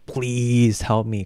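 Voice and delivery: drawn-out, slow mock pleading; imitated plea. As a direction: stretch out the please as if begging. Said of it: "she counts Jesus".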